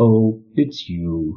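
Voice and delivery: cool, condescending, superior tone. Recounting a Portal 2 scene, quoting GLaDOS as she realizes you're human: mock-condescending GLaDOS voice. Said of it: "in that sort of condescending voice".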